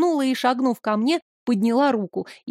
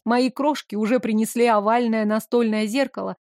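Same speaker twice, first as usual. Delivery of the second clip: ordinary delivery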